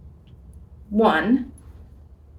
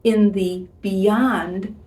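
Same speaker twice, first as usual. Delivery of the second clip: tender letter reading. Acted. Reads God's love letter aloud.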